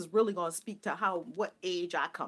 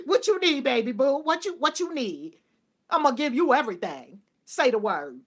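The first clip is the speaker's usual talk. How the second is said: loud, hammed-up doting; gushing indulgence; 5 semitones higher, 10 dB louder than usual. Woman offering her inner child everything, loud and doting. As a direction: gush big and loud over a beloved kid.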